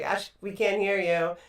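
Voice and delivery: slow, drawn-out mock complaint. Host quoting listeners about the audio, slow mock complaint. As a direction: lightly imitate a complaining listener.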